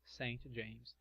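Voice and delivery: "Its" spoken slowly and clearly; slow careful model line; slow model sentence. Shown as a demonstration. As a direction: spell it out slowly for learners. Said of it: "O nome dela is Saint James".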